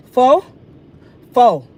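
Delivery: Fo? loud and rising then Fo. flat; mocking fo. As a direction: repeat fo mockingly. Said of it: "mocking the word".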